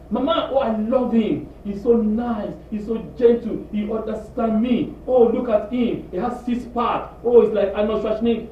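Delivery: mock smitten daughter; gushing daughter. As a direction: swoon over a boyfriend. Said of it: "your daughter come".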